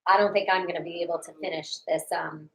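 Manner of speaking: sticky peanut butter mouth; mouth full of peanut butter. Real, not acted. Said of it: "my stomach really hurts".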